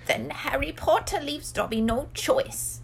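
high, slow, sorrowful elf voice; sad Dobby. A narrator's reading. House-elf gives up on persuading Harry, sadly. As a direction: lament it as a little elf. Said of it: "said the elf sadly".

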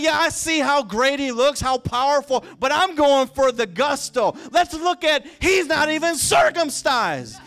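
loud, high preacher's rant as a challenger; defiant taunt. Acted. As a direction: belt it out, building into a shouted threat. Acting David's defiant taunt of Goliath.

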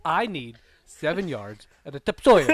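deliberate, spaced words ending on tup-SOIL for "topsoil"; slowed-down repeat. Acted. Customer repeats for a baffled supplier, slow and deliberate, "topsoil" as tup-SOIL. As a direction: spell it out word by word, still stressing the end of "topsoil". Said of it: "can you slow down".

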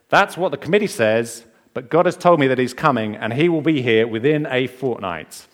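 put-on feisty old lady. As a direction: brush off the committee, sure of God. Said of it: "Peggy, the very feisty variety".

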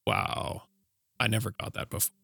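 hushed, breathless wonder; almost whispered, as if struck by it; awed hush. Retold or imitated. Telling his friend what the show taught him, in a hushed voice. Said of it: "And I was like".

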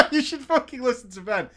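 laughing through a fake rant; half-laughing, mock scolding. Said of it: "You should listen to Vent, right?".

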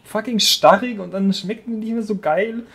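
loud, high rant; Wutrede. Real, not acted. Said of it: "Da muss ich jetzt auch mal eine Wutrede halten". (aufgebrachte Wutrede)

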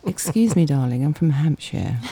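lightly plummy posh lady; a hint of a haughty posh accent. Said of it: "put the posh voice on".

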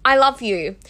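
bright, earnest self-affirmation; hopeful affirmation. Retold or imitated. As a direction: tell yourself you mean it. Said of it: "I would say to myself".

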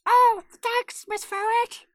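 very high squeaky ferret voice. Pretend. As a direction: squeak back like a ferret student. Joins the ferret voice game.

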